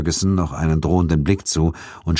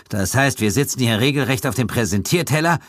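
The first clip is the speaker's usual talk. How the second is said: panicked; 7 semitones higher than usual. Acted. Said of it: "rief Ferguson panisch".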